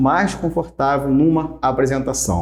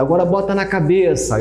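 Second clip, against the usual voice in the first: calling out instruction; 5 semitones higher than usual. Retold or imitated. Acting out instructions to audience.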